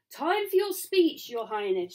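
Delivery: a touch of a guard's formal call; lightly voiced guard. Guard summons supposed royal.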